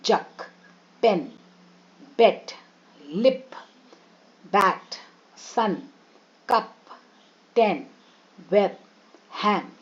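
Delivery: isolated words जक, पेन, बेट with short vowels and pauses between; short vowel demo. Shown as a demonstration. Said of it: "short vowels कहते हैं".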